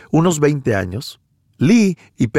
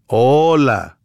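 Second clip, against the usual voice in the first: hola con otra voz. Shown as a demonstration. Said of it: "todas las formas en las que puedes decir".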